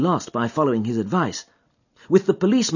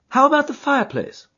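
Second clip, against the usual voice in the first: higher, crisp detective voice; lightly voiced Holmes; 10 semitones higher than usual. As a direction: play the keen, cool detective.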